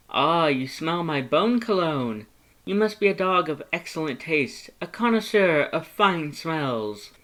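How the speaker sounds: high, loud, slowing flourish; grand Papyrus. Acted. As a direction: praise the dog like a proud host, up high. Papyrus praises sniffing dog.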